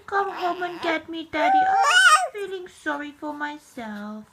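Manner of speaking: hammed-up whiny cry for daddy; mock whimpering. Mother voicing baby, mock crying for daddy to come home. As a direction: fake a teary plea to come home.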